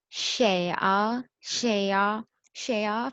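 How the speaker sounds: शेया drawn out with a rising end; Chinese sentence-final particle. Shown as a demonstration. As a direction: let शेया rise at the end, like answering the door. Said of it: "आ हम किस लिए use करते हैं".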